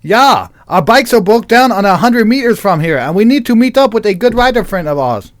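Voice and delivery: high, loud, hammed-up character voice; put-on character voice. Traveller telling bikers of broken-down bikes, loud and high. Scripted role of Persis, hammed up.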